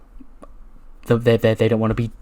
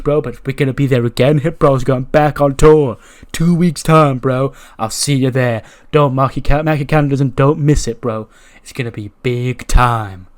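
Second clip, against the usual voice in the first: excited Riddle; 3 dB louder than usual. Retold or imitated. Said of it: "Riddle's like".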